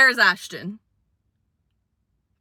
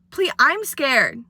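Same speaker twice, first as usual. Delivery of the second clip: mock scared plea; 6 semitones higher than usual. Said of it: "I was like".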